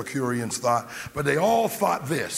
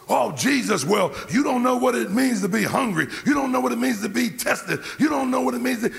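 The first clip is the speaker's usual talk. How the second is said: pleading shout; 7 semitones higher than usual. Acted. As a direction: cry it out like a tested man. Preacher voicing a complaint to Jesus.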